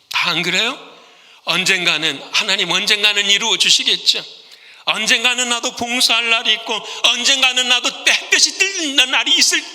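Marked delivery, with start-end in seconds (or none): 1.4-9.6 mock wishful musing. Mocking passive believers.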